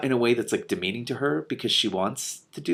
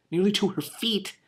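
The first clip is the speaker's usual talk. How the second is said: much higher, rising on nearly; surprised repeat; 11 semitones higher than usual. Real, not acted. Reader rereading the hair line, amazed. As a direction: echo the words in disbelief.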